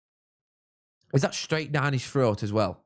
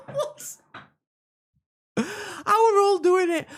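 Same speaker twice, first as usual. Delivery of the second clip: incredulous exclaim; slower than usual. Real, not acted. Disbelief at Hull scoring.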